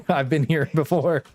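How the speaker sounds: amused, laughing it off. Real, not acted. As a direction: chuckle through the line. Laughing at being stuck again.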